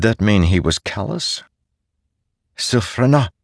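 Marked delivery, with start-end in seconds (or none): 2.5-3.3 high call into the dark. Acted. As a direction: call her name, searching. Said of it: "he called".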